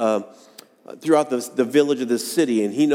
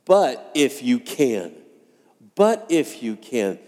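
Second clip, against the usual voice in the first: slow, doubtful hold on each word; hesitant; slower than usual. Shown as a demonstration. Preacher acting out a desperate father's doubt, hesitant. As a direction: let the doubt drag the words out. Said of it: "do you see the hesitation in his voice".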